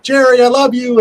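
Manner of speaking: high-pitched mock shout; retold shout. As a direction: call it out high, imitating a holler. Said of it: "to shout out".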